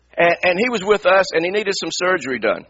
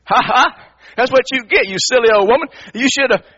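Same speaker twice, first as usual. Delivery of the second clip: mocking, higher and louder gloat; 6 semitones higher, 3 dB louder than usual. Pastor gloats as the old lady drops her papers. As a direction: relish her misfortune with a sneer. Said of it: "I'm sitting there thinking".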